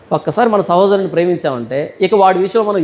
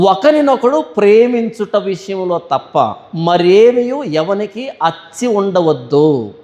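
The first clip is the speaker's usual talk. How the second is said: scripture reading; much slower than usual. Acted. Reads scripture verse aloud.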